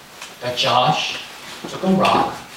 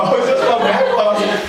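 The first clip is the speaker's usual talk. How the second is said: chuckling through the line; laughing; 6 semitones higher than usual. Real, not acted. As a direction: laugh while you say it. Laughing while quoting wife.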